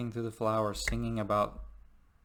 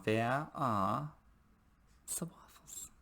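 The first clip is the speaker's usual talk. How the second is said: put-on high, pleading German accent, a whispered bit in the middle; a hammed-up German accent, hunting for the waffles; a German accent, much higher and wheedling; mock German accent; 5 semitones higher, 3 dB quieter than usual. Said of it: "that German accent".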